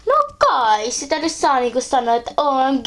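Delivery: light teen-speak put on by a parent; lispy baby-talk voice. Parent imitating teens to their child, lightly simpering voice. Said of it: "Sulle ei sovi tällainen lässyti, lässyti ääni".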